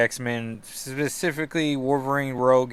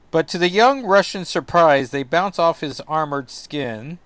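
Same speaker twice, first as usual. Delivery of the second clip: raised, emphatic storyteller voice; dramatic recap narration; 4 semitones higher, 7 dB louder than usual. Acted. Telling how the stars bounce off, dramatic narration. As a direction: read it as a punchy comic caption.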